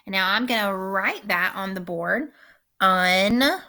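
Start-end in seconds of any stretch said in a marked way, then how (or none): 2.8-3.6 "Unzip" broken into two parts, un, pause, zip; split into syllables. Shown as a demonstration. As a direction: say "Unzip" syllable by syllable with a clear gap. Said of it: "just the way I separated it".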